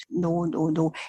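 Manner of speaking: soft, sinking denial; faint ghostly voice. Retold or imitated. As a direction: barely breathe the refusal. Spirits deny they have died.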